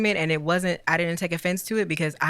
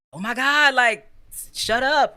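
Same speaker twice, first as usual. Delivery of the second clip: imitated yell; 7 semitones higher, 3 dB louder, slower than usual. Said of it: "you yelled at me".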